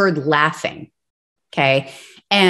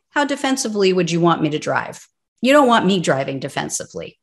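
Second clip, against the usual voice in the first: sardonic; faster than usual. Real, not acted. Host mocks drive defensively advice.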